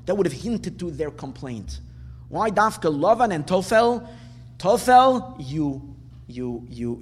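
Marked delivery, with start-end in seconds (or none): 4.6-7.0 sharp rebuke. Acted. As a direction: spit the word out like a scolding. Moshe rebukes the people.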